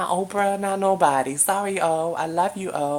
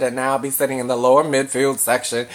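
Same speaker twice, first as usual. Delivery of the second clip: excited; 9 dB louder than usual. Real, not acted. Gushing about a singer's concert tickets.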